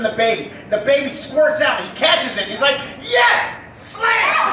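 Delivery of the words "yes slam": high, loud touchdown-style celebration; triumphant shout. Acted. Ex-football player catching the baby, triumphant shout. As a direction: roar it like a scored touchdown.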